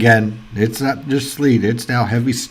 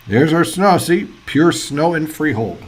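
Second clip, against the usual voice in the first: thrilled; 5 semitones higher than usual. Real, not acted. Snow shows on the radar.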